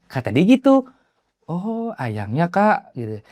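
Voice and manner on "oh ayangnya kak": retold innocent acknowledgement; innocent reply. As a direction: play a naive, polite listener. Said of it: "Dengan polosnya saya nyautin".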